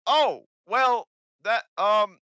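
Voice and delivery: high, loud, brash goblin voice; loud hobgoblin. Acted. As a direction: bark it out like a pushy hobgoblin.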